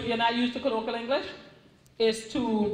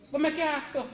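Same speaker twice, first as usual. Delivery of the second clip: lightly Trini creole phrasing, a touch higher; Caribbean creole; 5 semitones higher than usual. Shown as a demonstration. Author demonstrating Trini creole to her readers, light Caribbean lilt. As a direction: say it the island way, easy and casual. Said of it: "I'll say".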